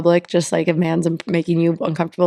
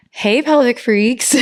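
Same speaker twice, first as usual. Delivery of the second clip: announcer voice; 3 semitones higher, slower than usual. Shown as a demonstration. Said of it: "it doesn't sound as right for me".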